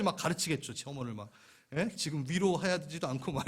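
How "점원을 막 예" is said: usual speaking voice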